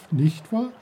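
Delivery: lightly voiced brook tag question; a hint of the giggly brook asking; brook's playful tag question. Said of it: "Kicherte der Bach".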